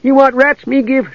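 high, pleading creature voice; high-pitched little grovelling creature; begging gully dwarf. Acted. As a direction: bargain desperately in broken speech. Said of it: "begged the gully dwarf".

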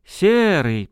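high call to a friend. Acted. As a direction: call him over. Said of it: "позвал он".

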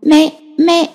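put-on high toddler calling; a baby calling for mama. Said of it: "khi mở miệng thì lại gọi".

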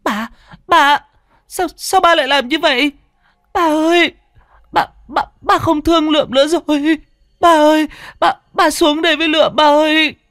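very high, loud crying plea; a boy screaming and sobbing at his father on the ledge; wailing scream. A narrator's reading. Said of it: "Nó hét lên thất thanh". (gào khóc thảm thiết, giọng rất cao)

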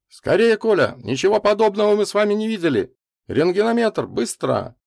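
high, loud, imploring call; urgent plea. A narrator's reading. Old man calls Коля from the gate, urgently pleading. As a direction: beg him to hurry, raising the voice. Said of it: "не закричал, взмолился".

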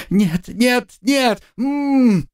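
high, rising screams of no; terrified screaming. Acted. Student seeing the post, screaming in terror. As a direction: panic climbing to a muffled scream.

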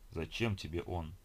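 low, slow gurgling creature voice. Acted. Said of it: "чей-то булькающий голос".

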